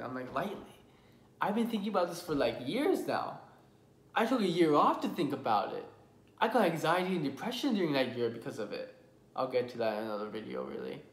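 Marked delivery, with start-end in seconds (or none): 0.3-8.9 higher, louder indignant pushback; indignant retort. Retold or imitated. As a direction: fire back at the stranger, offended. Retorts to stranger on phone.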